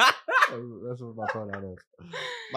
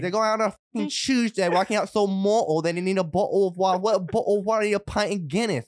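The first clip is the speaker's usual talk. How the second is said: higher, lively mock Geordie; Geordie accent; 4 semitones higher than usual. Guest playing Geordies out drinking, mock Geordie accent. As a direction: put on a rowdy Newcastle accent. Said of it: "the Geordies are".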